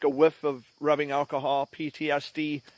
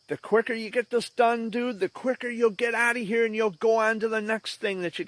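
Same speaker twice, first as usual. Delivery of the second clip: higher-pitched, uplifting pep talk; encouraging nurse; 7 semitones higher than usual. Retold or imitated. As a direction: coax a scared child along as the nurse. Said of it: "they were very encouraging and uplifting".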